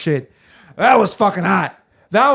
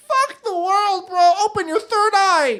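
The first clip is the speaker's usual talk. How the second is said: mock guru voice. Mock mystic high voice.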